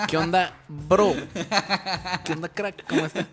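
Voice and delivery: bro greeting. Retold or imitated. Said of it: "tengo maña de hacerlo".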